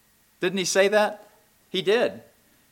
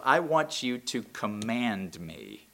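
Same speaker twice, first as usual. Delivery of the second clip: quiet divine command; 5 semitones lower, 8 dB quieter than usual. Acted. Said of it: "he says".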